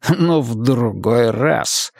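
slow, dismissive snort of a line. Acted. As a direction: brush him off with contempt. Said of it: "фыркнул маг".

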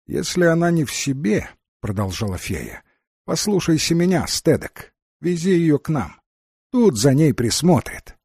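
Фея, чуть выше обычного голоса рассказчика; слегка озвученная Фея. Acted. (лёгкая актёрская подача Феи)

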